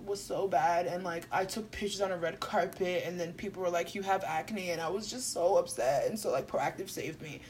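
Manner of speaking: soft, hushed mock-earnest testimonial; mock celebrity confessional. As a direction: imitate a star's tearful-story pitch, understated. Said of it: "Then they're like".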